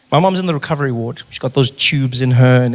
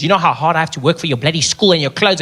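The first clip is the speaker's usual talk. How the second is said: nagging parent. Retold or imitated. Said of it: "I hate it when parents say that to their kids".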